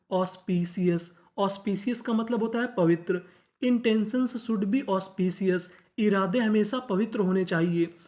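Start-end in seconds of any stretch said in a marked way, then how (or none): 3.6-5.6 slow model reading. Shown as a demonstration. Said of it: "teacher reads model sentence slowly".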